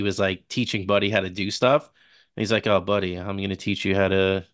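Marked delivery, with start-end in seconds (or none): 2.7-4.5 mock monotone, slow, lifeless teacher voice; monotone drawl. Mocking Papa Elf teaching Buddy, in a slow monotone drawl. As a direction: imitate a bored elf dad dragging out a lesson. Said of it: "everything was just monotone and drawl".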